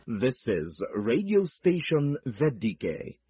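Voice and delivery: ordinary talk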